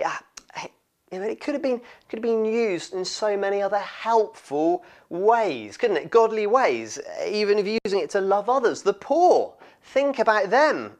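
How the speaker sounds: high, loud mock outrage; outraged. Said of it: "the disciples' outrage here".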